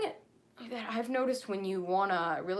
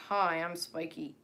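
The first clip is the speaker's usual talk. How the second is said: slightly deeper, slower cartoon character voice; your own voice taken a bit deeper, unhurried; Spiky's deeper voice. Shown as a demonstration. Creator trying out a voice for a character, slightly deeper voice. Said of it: "like my voice, but a bit deeper".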